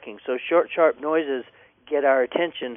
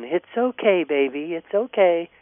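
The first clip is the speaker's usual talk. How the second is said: mock cooing to a dog, pitched higher; 3 semitones higher than usual. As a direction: coo it like soothing a baby. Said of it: "most people coo at 'em by going".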